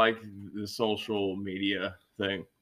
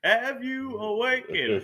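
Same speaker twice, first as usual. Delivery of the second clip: epic dragon voice; 13 semitones higher, slower than usual. Pretend. Playing along with dragon name.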